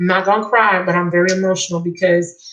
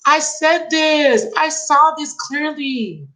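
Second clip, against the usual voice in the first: high, slow, amazed exclamations; excited disbelief; 6 semitones higher than usual. Real, not acted. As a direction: she can't believe her own prediction came true. Reader sees her prediction confirmed.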